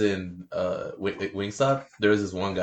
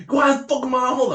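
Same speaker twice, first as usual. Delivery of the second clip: high, mocking caller voice; angry caller; 5 dB louder than usual. Rude customer telling worker to hold others, high mock voice. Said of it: "Then he goes".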